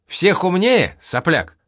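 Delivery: scornful jab. Acted. Old man scolds boy.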